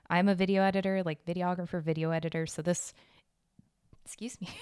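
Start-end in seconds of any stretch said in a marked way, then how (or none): 4.0-4.5 hiccuping mid-sentence; interrupted by a hiccup. Real, not acted. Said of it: "I have the hiccups right now".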